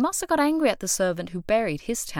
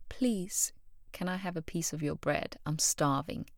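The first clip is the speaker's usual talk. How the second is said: whispered, softer plea from a starving stranger; starving stranger begging for a piece of bread, whispered; 5 dB quieter than usual. Retold or imitated. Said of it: "and they beg you".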